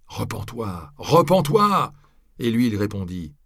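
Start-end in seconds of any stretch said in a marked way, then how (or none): 1.0-1.9 high, loud yell; howled. A narrator's reading. Crowd howls at the friar to repent, high and loud. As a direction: bellow the second repens-toi at him. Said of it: "ils lui hurlèrent".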